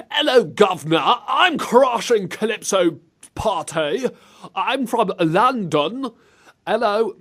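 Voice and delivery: high, slow mock-Cockney; bad American-faked British accent. Host mocking Americans impersonating the British, hammed-up bad British accent. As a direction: overdo a rubbish British accent, drawn out. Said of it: "them impersonating the British, I always think".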